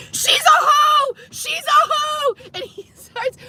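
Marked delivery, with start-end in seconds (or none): 0.1-2.3 high, slow sing-song taunt; mock taunting. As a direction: jeer it like a bratty guy running off. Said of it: "grabs the phone out of my hand and goes".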